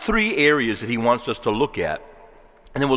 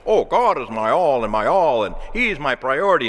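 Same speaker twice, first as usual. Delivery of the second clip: mock pious answer; 4 dB louder than usual. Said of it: "How I'm supposed to answer the question".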